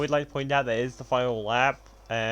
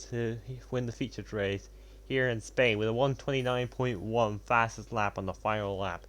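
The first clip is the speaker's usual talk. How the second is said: motorsport commentator; slower than usual. Acted. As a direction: race finish play-by-play. Calls the race finish.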